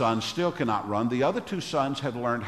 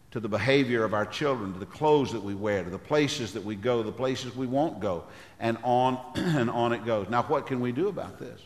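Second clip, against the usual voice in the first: ordinary delivery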